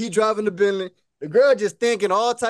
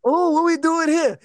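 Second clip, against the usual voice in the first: higher, drawn-out questioning; puzzled girl; 6 semitones higher, slower than usual. Acted. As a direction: play a puzzled date, pitched up and slow. Voicing confused girl at motel.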